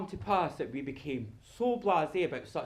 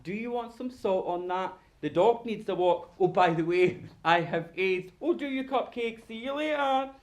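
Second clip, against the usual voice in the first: lightly acted breezy small talk; mock-casual household patter; blasé everyday chatter; 4 semitones higher, 4 dB louder than usual. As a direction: toss the news in offhand, lifting at the end. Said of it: "But nowadays, it's just".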